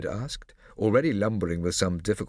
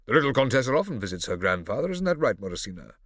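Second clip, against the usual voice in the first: condescending; 3 semitones higher, 4 dB louder than usual. Acted. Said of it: "condescending tone".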